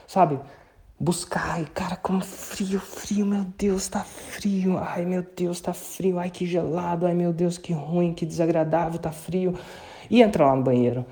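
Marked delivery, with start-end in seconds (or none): 1.6-9.5 breathy whispered moaning about the cold; in ice cold water. Shown as a demonstration. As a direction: whimper as if freezing under the shower. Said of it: "jogue o jogo assim, intencionalmente, com intensidade".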